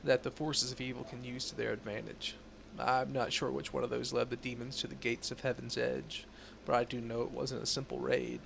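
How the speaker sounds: measured, serious investigator tone; stern Inquisitor voice. Acted. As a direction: read it like a grave inquisitor. Reads Inquisitor NPC dialogue.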